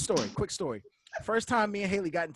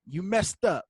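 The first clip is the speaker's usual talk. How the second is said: louder, a touch of a scolding best friend; retold friend scolding; 3 semitones higher, 5 dB louder than usual. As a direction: lightly snap like a blunt best friend. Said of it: "He's like".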